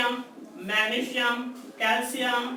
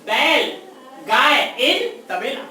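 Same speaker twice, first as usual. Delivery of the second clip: louder, slow, punched recitation; emphatic mnemonic; 6 dB louder, much slower than usual. Shown as a demonstration. Teacher calling out the cattle mnemonic to the class, loud and slow. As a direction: belt out the trick so it sticks. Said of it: "ध्यान से देखिएगा".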